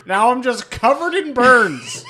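laughing through the words; giggling as he says it. Real, not acted. Laughing joke aftermath.

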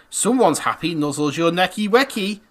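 hammed-up baby talk; cutesy baby voice. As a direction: coo every word. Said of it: "read these out in a voice".

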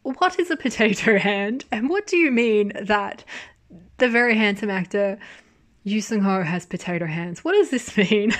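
mock-bewildered, breaking into laughter at the end; amused bafflement. Acts out baffled reply to dad.

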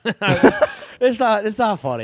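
laughing while talking; giggling through the words. Real, not acted. Laughing at own joke.

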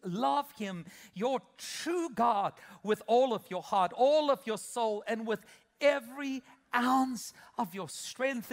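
loud, slow reading that leans on each all; preacher's loud slow recital; emphatic scripture reading. Acted. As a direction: proclaim the verse, stressing every all. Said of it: "it says it this way".

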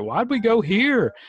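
high, loud incredulous whine; mock complaint. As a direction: groan it like a let-down diner. Recalling disliking Thai food.

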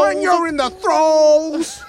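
very high, drawn-out impression; hammed-up celebrity voice, last word held long; Bill Cosby. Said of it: "You just sound like Bill Cosby".

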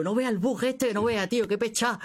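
amazed gamer gripe. Retold or imitated. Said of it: "Y digo".

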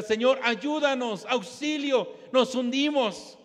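drawn-out retold plea for rescue; mock cries for help. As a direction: call out slowly, imitating sinking disciples. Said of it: "comienzan a gritar".

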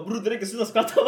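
loud quote through laughter; laughing retelling. Retold or imitated. Friends beg him to stop laughing, retold laughingly. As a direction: act out the friends' plea while cracking up.

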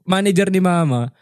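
usual speaking voice

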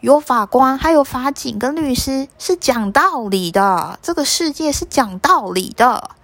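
insisting the world is fair, pressing hard; earnest mother swallow. Acted. Swallow mother argues with python. (燕子妈妈急切地讲道理)

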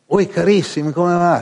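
a light take on a sparkling showbiz welcome; bubbly greeting. Retold or imitated. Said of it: "Sai, spumeggiare".

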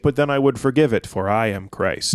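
mock-solemn declaration, falling and slowing; Jesus proclaiming. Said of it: "Jesus is like".

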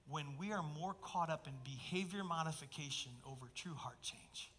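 soft, low, half-whispered reading; hushed intimate reading. Acted. Pastor softly reading Jesus' rebuke to the congregation. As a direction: draw the listeners in close and quiet.

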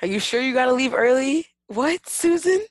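high, fast nagging boss; mock boss voice. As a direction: play a pushy boss checking in. Mocking boss on the phone.

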